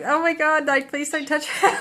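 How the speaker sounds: laughing plea. Retold or imitated. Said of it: "I was just so like".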